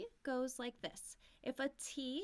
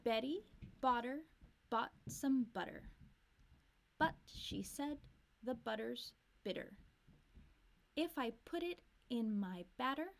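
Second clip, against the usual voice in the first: line by line model. Shown as a demonstration. Teacher models each line for students to repeat. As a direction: clear lines with pauses for repeating. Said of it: "Make sure you're repeating".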